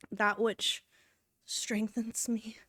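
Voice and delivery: slow, breathy hushed whisper; whispering playfully about her soda; mock solemn whisper. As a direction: hush it like a sacred secret. Mock reverent line about soda.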